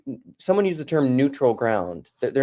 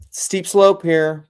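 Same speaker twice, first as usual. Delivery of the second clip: silly slow voice; 7 semitones higher, 6 dB louder, much slower than usual. Acted. Joking voice aside.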